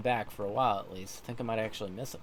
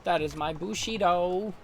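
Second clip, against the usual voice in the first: higher proud declaration; Tom, resolute samurai; 6 semitones higher than usual. Acted. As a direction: state your code with pride. Tom declares his code.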